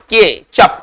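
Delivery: के चप said as two parts, no t sound; silent t ketchup. Shown as a demonstration. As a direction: say के चप with the t left silent. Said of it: "टी का उच्चारण नहीं होगा".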